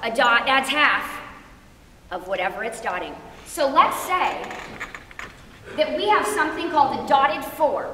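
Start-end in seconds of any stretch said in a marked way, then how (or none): 0.0-3.1 deliberate delivery broken up by dramatic pauses. Repeating a rule about dotted notes, with dramatic pauses through the sentence. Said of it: "I'll say it again with great dramatic pause".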